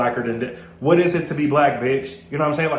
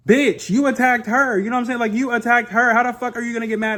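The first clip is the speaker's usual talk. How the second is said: pitched-up disbelief at her; outraged; 9 semitones higher, 3 dB louder than usual. Real, not acted. Outraged at Jayla.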